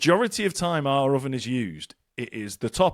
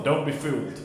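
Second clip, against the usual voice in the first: put-on Mexican accent. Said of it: "affecting somewhat a Mexican accent".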